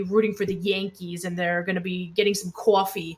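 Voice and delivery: put-on New York accent on the vowels; lightly put-on New York accent. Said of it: "listening to my aunts and uncles talking all the time".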